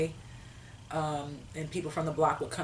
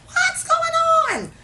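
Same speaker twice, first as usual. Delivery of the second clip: mock shout; 13 dB louder than usual. Shocked at workers fixing house.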